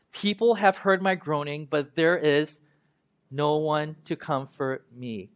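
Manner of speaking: slow, weighty reading of the lament; mournful Bible reading; solemn scripture reading. Acted. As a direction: read each line slowly, letting it sink in.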